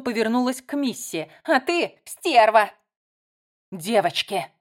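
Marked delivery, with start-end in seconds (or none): 1.4-2.7 slow loud insult; angry insult. Acted. Layla turns to Missy and insults her, loud and slow. 3.7-4.5 raised voice. A narrator's reading. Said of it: "подняла голос Джо".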